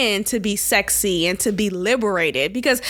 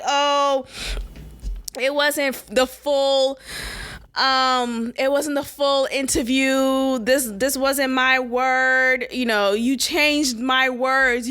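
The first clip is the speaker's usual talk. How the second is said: mock celebrity excuse; slower than usual. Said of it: "You know how celebrities be like".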